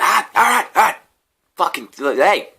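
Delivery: high, loud nervous soothing; mock placating. Me soothing the angry stranger, mock nervous. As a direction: squeak out a hasty truce. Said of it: "'cause I was like".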